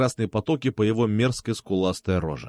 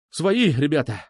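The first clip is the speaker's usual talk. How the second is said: exclaiming; 4 semitones higher than usual. Acted. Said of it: "воскликнул я".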